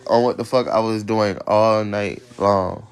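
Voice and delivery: slow and loud, drawn out; annoyed, stretching every word; loud, annoyed complaint. Real, not acted. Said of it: "Like, I'm pissed".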